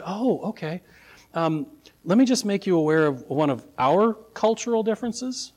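understated mock politeness; wry. Governor answering locals about their custom, lightly wry. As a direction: play the governor calmly turning the tables. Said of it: "very wryly said".

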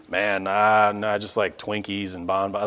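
low, soft slacker voice; mock apathetic mumble; listless patient. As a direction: shrug it off, trailing down. Acts out unhealthy patient answering doctor.

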